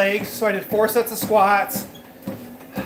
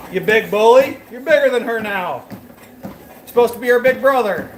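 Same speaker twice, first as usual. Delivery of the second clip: scolding; 3 semitones higher, 4 dB louder than usual. Real, not acted. Scolding the dog after yelling.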